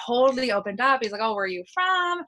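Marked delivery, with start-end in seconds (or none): 1.2-2.2 high-pitched imitation of an eager question; eager curiosity. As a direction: mimic someone keenly curious, voice lifted. Retells owner opening up.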